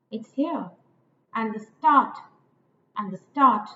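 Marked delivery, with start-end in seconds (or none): 1.3-2.2 "and the" light, "start" louder; stress on start. Shown as a demonstration. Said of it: "two unstressed followed by a stressed". 3.0-3.7 two light beats, then "start"; stress on start. Shown as a demonstration. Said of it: "two unstressed followed by a stressed".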